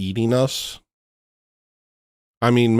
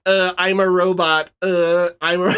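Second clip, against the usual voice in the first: mock robotic white guy; 8 semitones higher than usual. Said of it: "White people be like".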